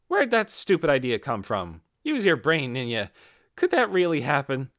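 loud, scornful retort; snapping at Ninya. Acted. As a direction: bite back hard at a dumb idea. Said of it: "Lacroute bit right away".

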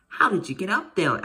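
put-on child calling up in amazement; amazed shout. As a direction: call up in wonder to the rooftop. Boy amazed at king.

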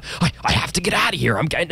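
high-pitched, hurried mock desperation; mock cabin fever. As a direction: blurt it like someone desperate to escape. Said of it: "everyone's gonna be like".

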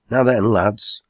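understated exclamation; crying out. Acted. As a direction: hail them with a lifted voice. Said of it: "cried Rip".

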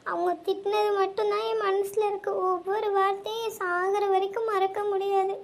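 sobbing through the words; crying. Acted. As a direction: cry as you tell it. Crying girl tells her friends. (அழுதுகொண்டே பேசுதல்)

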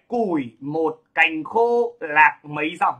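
measured, slow poetry quote; slow verse recitation. Shown as a demonstration. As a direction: recite the verse slowly, word by word. Récite un vers de Huy Cận.

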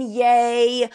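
a hollow cheer thrown in with scorn; mock cheer. Mock cheer mocking the brand's empowerment pitch.

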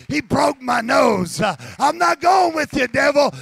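laugh, then shout the victory of Jesus; imp turned preacher. Pretend. Imp refuses, proclaims Jesus loudly.

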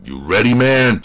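forceful, pressing question; demanding. Acted. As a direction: demand an answer from the cowed suspect. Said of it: "Spence demanded".

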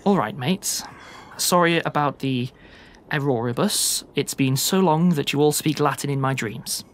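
lightly voiced Sasha reading her letter; informal, unhurried letter-reading in character; Sasha, plain-spoken friend writing home. Sasha apologising to old friends in a letter, chatty and sincere.

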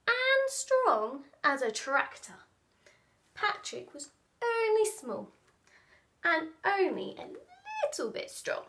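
expressive picture-book narration with stretched key words; animated children's storyteller; storytelling to children. Acted. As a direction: read it playfully, leaning on the big words.

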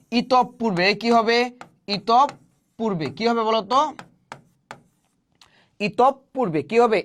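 slowly, with a doubled p in ইতপূর্বে, itop-purbe; slow teaching question. Shown as a demonstration. Teacher quizzing students, slow with a doubled p. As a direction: draw out ইতপূর্বে with the p held double. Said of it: "তাহলে প কয়বার উচ্চারিত হবে?".

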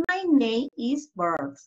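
slow, careful "My name is Bert."; slow model answer. Shown as a demonstration. Teacher modeling the answer for pupils, slow. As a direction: say "My name is Bert." slowly and clearly. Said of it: "The answer is".

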